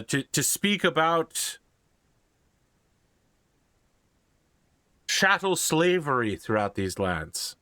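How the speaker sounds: put-on Irish-accented priest making an appeal. Irish priest asks a lord to fund freeing slaves, Irish accent. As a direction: plead the cause in an Irish accent. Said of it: "in a very Irish accent".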